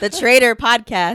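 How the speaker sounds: very loud, pumped-up, hyped shout. Podcast host welcoming listeners back to the show, a hyped shout. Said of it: "Why are you clipping the mic out here".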